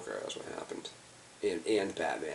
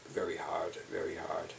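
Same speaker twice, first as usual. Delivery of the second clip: whisper; 7 dB quieter than usual. Real, not acted. Trailing off after hard trip.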